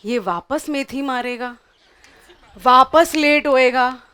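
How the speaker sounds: fast grumbling curse at her husband; cursing muttered rant. Retold or imitated. Wife cursing her absent husband, fast angry grumble. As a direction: rattle off the complaint, last bit loud. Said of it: "cursing her husband".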